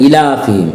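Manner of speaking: इलाफिहिम with a short first i; common wrong reading. Shown as a demonstration. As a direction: hurry the opening vowel of इलाफिहिम. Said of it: "इसको भी लोग कहते हैं". (इलाफिहिम में पहली इ छोटी)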